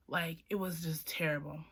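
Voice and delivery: whispering, worn out; whispered. Real, not acted. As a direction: breathe it out, exhausted. Retold misery.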